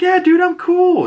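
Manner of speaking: very high, loud put-on reply; mock overeager reassurance. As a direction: squeak out an exaggerated promise. Acting partner's overeager reassurance.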